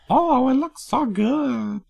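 put-on high, slow valley girl; drawn-out breathy teen gush. Shown as a demonstration. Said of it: "my default for teen girl voice".

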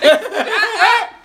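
high, loud cut-in; mock exasperated shout. Cutting off the stuttering impression, high loud mock shout. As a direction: burst out to silence the storyteller. Acts out snapping at the storyteller.

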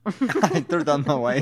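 mock British accent. Mimicking the co-host's line, slow mock British accent. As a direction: drag it out in a silly British accent. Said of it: "a sort of British accent".

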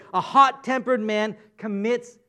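slow, deliberate verse read; scripture reading. Shown as a demonstration. Preacher quoting a verse to congregation, slow and measured. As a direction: read the line slowly and clearly. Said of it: "another verse says it this way".

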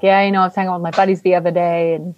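put-on a light, fast, casual Boston accent; loose, quick Boston accent chatting about buddies; casual Ben Affleck Boston. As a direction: toss it off like a relaxed Boston guy, lightly done. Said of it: "Ben Affleck really has the, like, casual".

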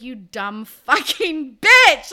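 mock insult. Mock-yelling at a book character.

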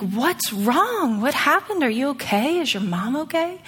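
concerned check on a stranger; anxious string of gentle questions; retold concern.

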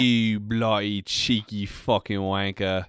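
slow, drawn-out put-on Irish insult; mock Irish accent. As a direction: savour each swear in a fake Irish brogue. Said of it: "Bro, that was, like, Irish".

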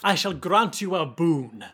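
put-on slow, grand French-accented pronouncement; Huey's French accent. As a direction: bestow it slowly in mock French accent. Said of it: "speaking with a French accent this whole time".

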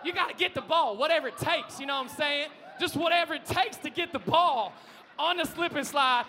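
loud, fired-up demonstration; excited shout. Shown as a demonstration. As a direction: shout it like you're going all out for the ball. Dives for ball on slip-and-slide.

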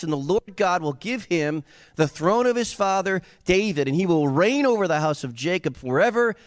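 high-pitched, driving declaration; building proclamation. Acted. Preacher as angel announcing the baby to Mary, high and fervent. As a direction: herald it with mounting fervor.

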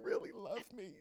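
squealed high and fast in a put-on giddy voice; a hammed-up starstruck squeal; mock gushing. Host teasing his guest, squealing in mock delight.

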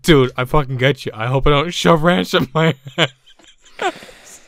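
mocking imitation of a friend; Marino. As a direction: imitate a friend's bad joke, laughing at the end. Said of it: "here comes Marino. He's just like".

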